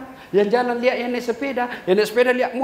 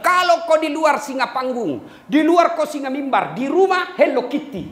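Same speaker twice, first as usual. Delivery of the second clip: higher, laughing retelling of the wife; half-hearted mock wife, chuckling; wife quoted, laughing; 6 semitones higher than usual. Preacher retells his wife's teasing, higher and laughing. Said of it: "Dia bilang".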